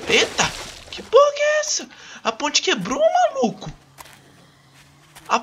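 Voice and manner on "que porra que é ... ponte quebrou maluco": high-pitched startled yell; real shock, voice jumping way up; shocked shriek. Real, not acted. Bridge collapses under him.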